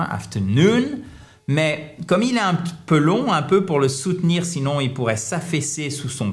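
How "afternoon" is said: "afternoon" with main stress on the last syllable, rising; accent primaire final. Shown as a demonstration. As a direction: lift "afternoon" on its final NOON. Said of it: "accent tonique primaire, ici il tombe sur la fin". (« afternoon » accentué sur la dernière syllabe)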